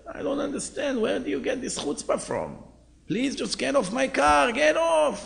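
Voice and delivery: mock scream. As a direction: throw him out of the car, shouting. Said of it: "He begins to scream".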